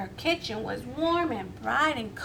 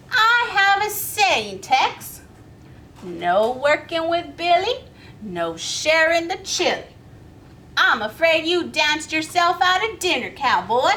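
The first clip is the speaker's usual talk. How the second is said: stubborn Miss Billy; 3 semitones higher, 5 dB louder than usual. Acted. Miss Billy refuses Tex.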